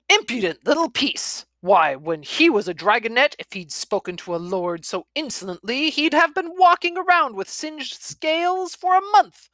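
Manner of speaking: put-on huffy old dragon grumbling; an offended lord of a dragon, sputtering; lightly voiced cranky grandfather; indignant grandfather dragon.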